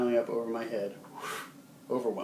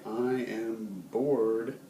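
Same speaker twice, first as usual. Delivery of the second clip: bored; much slower than usual. Shown as a demonstration. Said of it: "here's a fun one".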